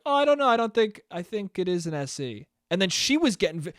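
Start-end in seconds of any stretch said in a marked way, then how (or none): 0.1-2.5 gently disagree without any heat; very calm. Retold or imitated. Retelling his calm side of an iPhone argument, very calm. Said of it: "very calmly was like".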